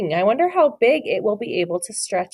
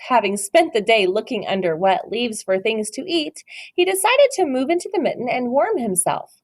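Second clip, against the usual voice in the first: story narration. Acted. Teacher reads The Mitten to her class, storybook voice. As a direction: read it like a picture book for little ones. Reads picture book aloud.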